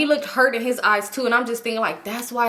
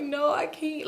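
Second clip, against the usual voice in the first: higher, softer tearful refusal; retold crying; 6 semitones higher, 7 dB quieter, slower than usual. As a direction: whimper it, lightly acted. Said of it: "And I was crying".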